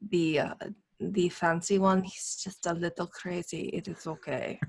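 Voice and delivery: secretive, confiding, conspiratorial tone. Lean down to the one looking for a father and speak in a conspiratorial tone. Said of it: "in a kind of a conspiratorial tone say".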